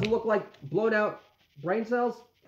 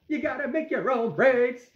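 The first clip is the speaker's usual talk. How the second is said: lightly voiced rock star quote, pitched up; higher, contained mock rocker proclamation; a rock singer; 6 semitones higher than usual. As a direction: repeat the slogan higher, without shouting. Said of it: "like the great rock singer says".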